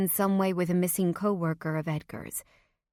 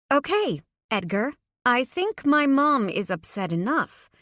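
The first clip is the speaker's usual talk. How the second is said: tense, high, louder through clenched teeth; through gritted teeth; 7 semitones higher, 6 dB louder than usual. Acted. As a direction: force it through gritted teeth, barely holding back. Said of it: "I spoke through gritted teeth".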